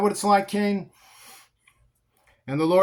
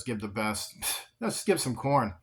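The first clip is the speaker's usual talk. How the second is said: much softer and lower, dismissive; sly tempter; 6 semitones lower, 8 dB quieter than usual. Acted. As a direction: scoff it away under your breath. Sin mocking Adam's advice.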